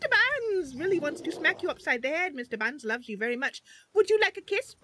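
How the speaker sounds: menacing then sweetly cooing; a lightly voiced creature teasing the player; Mister Buns voice. Shown as a demonstration. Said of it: "he'll be like".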